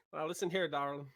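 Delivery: a soft Texas accent, lightly voiced; Texas accent attempt. Co-caster answering the dare with a lightly voiced Texas accent. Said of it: "my Texas accent".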